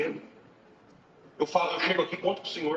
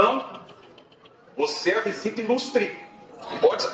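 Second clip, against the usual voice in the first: effusive greeting; 8 semitones higher, 3 dB louder, slower than usual. Retold or imitated. Porteiro insiste na saudação.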